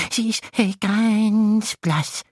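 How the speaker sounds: high gleeful monster chuckle; chuckling little monster. Acted. Monster voice continues. (kicherndes kleines Ungeheuer)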